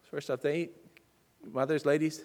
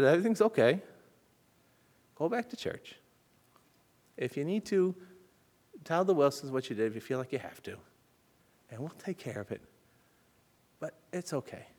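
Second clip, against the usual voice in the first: gentle reassurance; 3 dB quieter than usual. Retold or imitated. Mother comforting crying child.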